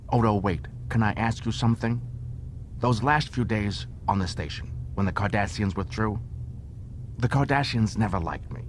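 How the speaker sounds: a frightened Ferengi begging for answers; anxious Quark. Acted. Quark pleading with Odo.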